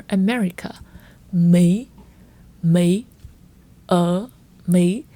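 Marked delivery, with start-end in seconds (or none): 1.3-5.0 Mỹ dipping then rising, said loud; ở Mỹ each with a U-turn; swing tone. Shown as a demonstration. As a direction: scoop Mỹ back up. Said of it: "An example for this".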